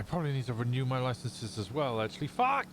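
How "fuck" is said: sudden curse. Real, not acted. Realizes she forgot license.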